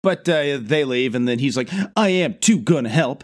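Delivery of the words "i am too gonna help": put-on stubborn kid. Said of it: "'cause he's a kid".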